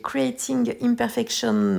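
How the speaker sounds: English title said with a plain French accent; slightly slow English with a French accent. Real, not acted. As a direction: read the English words the French way, unpolished. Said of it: "avec mon accent".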